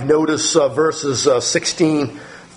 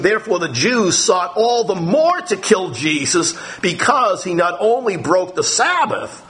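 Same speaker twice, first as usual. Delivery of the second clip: slightly raised, emphatic Bible reading; scripture reading; 3 semitones higher, slower than usual. A narrator's reading. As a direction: read the verse out, leaning on key words. Reads a Bible passage aloud.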